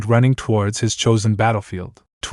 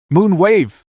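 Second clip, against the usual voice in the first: high, loud battle shout; shouted attack; 7 semitones higher, 4 dB louder than usual. Acted. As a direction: hurl the attack name out.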